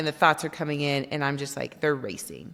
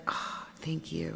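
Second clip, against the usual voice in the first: soft breathy whisper of gratitude, slowed down; whispered thanks; 9 dB quieter than usual. Retold or imitated. Thanking the universe in a small moment, whispered. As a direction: breathe out a grateful thank you.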